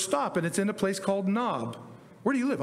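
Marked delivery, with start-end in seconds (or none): 2.2-2.6 asking voice. Acted. Acted exchange about the town Nob.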